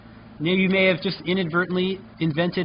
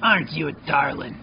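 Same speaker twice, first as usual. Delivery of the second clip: smoker's rasp; 3 semitones lower than usual. Acted. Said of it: "she's got that smoker's voice".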